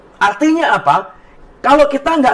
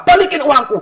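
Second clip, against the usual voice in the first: higher-pitched mock demand; retold angry demand; 6 semitones higher than usual. Passenger demands refund from airline, retold angry demand. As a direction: act out a cross customer, mildly heated. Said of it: "Lalu dia marah".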